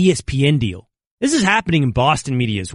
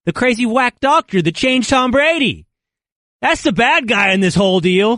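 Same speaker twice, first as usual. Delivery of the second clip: put-on a faint Boston accent creeping in; hint of a Boston twang on doctor; 7 semitones higher than usual. Host teased by cohost, a slight Boston accent. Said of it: "You gotta work on that a little bit there".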